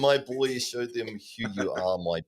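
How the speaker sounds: hammed-up Russian accent, slowing down; a quick stab at a Russian accent. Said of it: "I'm going Russian here".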